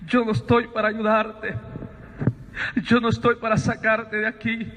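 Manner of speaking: measured, solemn voice with long pauses; voice from the light. Retold or imitated. Voice tells Sabino why it has come, measured and solemn. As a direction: set each statement apart gravely. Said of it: "aquella voz me dice".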